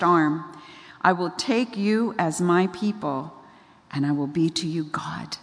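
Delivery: measured, weighty recital with pauses; scripture reading. Retold or imitated. God speaks to Moses in chapter six, solemnly recited. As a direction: declaim it lightly as God's solemn word. Reads God's words from scripture.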